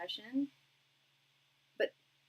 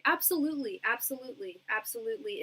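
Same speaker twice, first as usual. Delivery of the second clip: emphatic agreement; 2 semitones higher, 5 dB louder than usual. Real, not acted. Eager agreement with viewer's hope.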